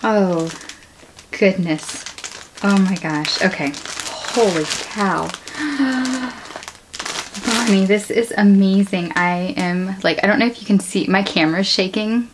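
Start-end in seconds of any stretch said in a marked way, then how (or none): 5.3-6.7 higher, quiet sharp intake of breath; soft gasp of surprise. Real, not acted. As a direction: gasp at the sight. Opening another gift.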